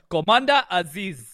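a hint of the prince character; mock Commander Aziz voice. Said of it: "doing the Nigerian prince".

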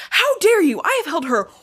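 high, loud mock outrage; hammed-up how-dare-you; outraged mother. Mother mocking fury at the wolf who imprinted. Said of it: "She's like".

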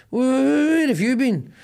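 high stuttered where-have-you-been; stammering shock. Retold or imitated. Partner back from Malta, stammering in shock. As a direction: stammer it out in disbelief.

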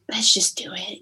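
a quick hushed whisper to herself; soft unvoiced whisper, talking herself into it; whispered resolve. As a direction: breathe it out like a private decision. Whispered self-talk in a quote.

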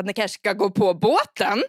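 milt låtsasskrik, långsamt och eftertryckligt; halvhjärtat rop till dröjande gäster; återgivet skrik. Retold or imitated. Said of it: "går fram till alla och bara skriker". (återgivet skrik)

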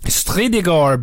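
Stridagor drawn out slowly, syllable by syllable; slow careful repeat. Shown as a demonstration. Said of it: "how to say this".

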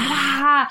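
loud "wah" of a cheering audience; imitated crowd roar. Comic recalling her partner's rapturous reception, mock crowd cheer. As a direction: mimic a roaring stadium crowd.

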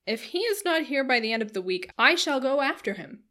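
loud hearty declaration; insistent cry. A narrator's reading. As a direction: vow it forcefully, as a blustering squire. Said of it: "cried Sir John".

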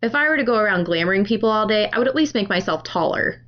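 quick, understated sarcasm; very sarcastic. Acted. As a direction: rattle it off with a dry sarcastic edge. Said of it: "like, very sarcastic".

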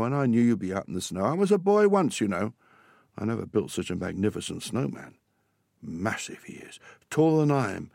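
lightly voiced storybook father, lively pitch swings; a hint of an indulgent dad; chiding, forgiving dad. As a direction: chide a little, then confide.

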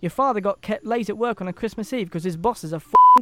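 exasperated father. Acted. Father complains in story.

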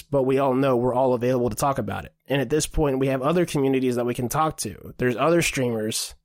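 breathless, gasping between phrases; talking while short of breath; running out of air. Real, not acted. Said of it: "I'm running out of breath here".

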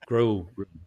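"Grill room" in heavy Scots, vowel darkened towards "grull"; thick Scottish accent. Shown as a demonstration. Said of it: "when I said it with my Scottish accent".

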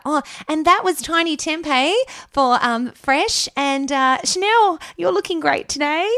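high, loud cheesy radio presenter; radio host voice. Retold or imitated. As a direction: ham up a commercial DJ. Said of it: "I would have sounded more like".

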